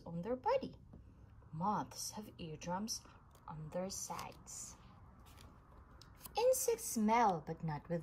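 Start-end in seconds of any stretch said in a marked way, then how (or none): 3.5-4.7 whisper. A narrator's reading. Unvoiced whisper.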